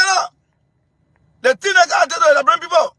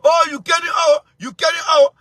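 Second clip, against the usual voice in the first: mock frightened rant. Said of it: "He always said".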